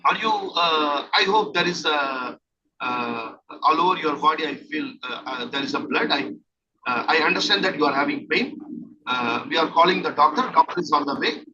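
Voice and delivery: reassuring role-play. Shown as a demonstration. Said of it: "So like this".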